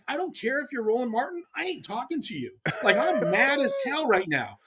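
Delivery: tight, high-pitched indignant retort; contained fuming in a retelling; retold anger. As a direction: reenact being mad, pitch up without shouting. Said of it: "I'm so mad".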